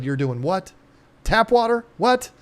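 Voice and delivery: playing back the shock of hearing it; retold disbelief. Retelling disbelief at Hans' tap water.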